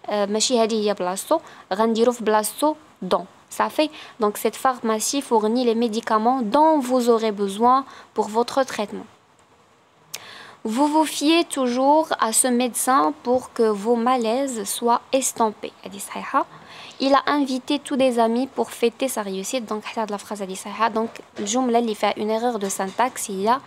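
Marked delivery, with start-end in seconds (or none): 4.4-15.7 slow, careful dictation of test sentences; slow classroom dictation; slow exam read. Acted. Reads exam sentences aloud. 17.0-19.6 slow, careful dictation of test sentences; slow classroom dictation; slow exam read. Acted.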